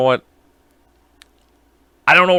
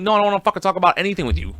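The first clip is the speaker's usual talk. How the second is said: fast annoyed brush-off; 6 semitones higher, much faster than usual. Retold or imitated. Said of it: "I'm like".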